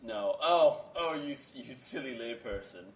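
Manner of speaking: lightly mocking, laughing put-on voice; silly put-on voice. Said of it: "Don't ever do that voice again".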